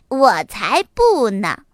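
slow, drawn-out little-fox denial; defiant. Acted. Little fox refusing to hide, slowly and defiantly. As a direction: stretch the refusal out proudly. Fox defies timid mother.

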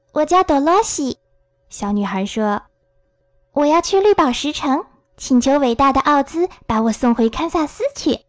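略高的小女孩声音，认真介绍自己; 稍稍提高音调扮小女孩; 小女孩朵洛西. Acted. Narrator voices Dorothy. (轻度扮演的小女孩嗓音)

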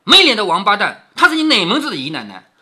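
loud, mildly acted contempt; scornful scolding. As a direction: berate a servant with a touch of disgust. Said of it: "凤姐听到这里就呸". (鄙夷地斥骂)

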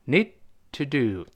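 NEED stopped on an unreleased d before TO DO; NEED TO DO with a tiny gap instead of d; held-back stop. Shown as a demonstration. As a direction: hold the breath briefly after NEED, then TO DO. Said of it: "憋一下气".

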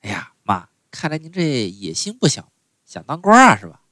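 mild playful teasing; joking with mother at lunch. Retold or imitated. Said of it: "跟我妈开玩笑".

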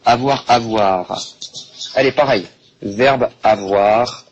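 slow, drawn out avoir; slow prompt. Shown as a demonstration. Teacher prompting the class slowly for the verb. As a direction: coax the answer slowly. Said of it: "Allez, avoir".

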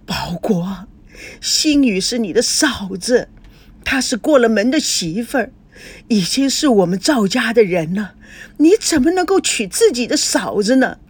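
pained pleading that rises into reproach; distressed remonstrance. Acted. Parent remonstrates with defiant son.

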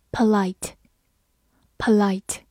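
very slow, stretched model word; slow model reading. Shown as a demonstration. Teacher modelling the review word slowly. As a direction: draw the word out for learners. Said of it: "复习一下今天学过的单词".

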